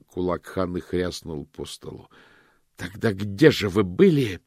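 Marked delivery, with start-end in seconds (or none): 2.8-4.4 louder, demanding; shouted question. A narrator's reading. Hanna shouts at the suspect, demanding. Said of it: "выкрикнула она".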